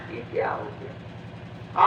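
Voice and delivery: high breathy wailing on ये क्या हो गया, slow and hushed; a mourner's broken lament of ये क्या हो गया; crying out. Retold or imitated. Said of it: "और रोने लगे". (रोते हुए ऊँची, फुसफुसाती आवाज़ में ये क्या हो गया)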